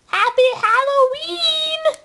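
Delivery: slow cheerful greeting. Acted.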